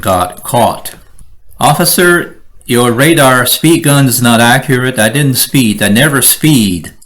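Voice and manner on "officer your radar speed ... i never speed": disrespectful. Shown as a demonstration. Speeder arguing with the officer, defiant and indignant. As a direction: argue back, offended and defiant.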